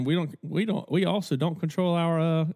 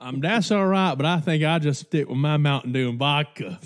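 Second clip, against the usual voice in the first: lightly mimicked barfly, pitched up; Cletus; 4 dB louder than usual. Barfly declining the nutty Russian, lightly mimicked. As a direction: turn the drink down in a raised mock voice. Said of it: "all of a sudden you hear this".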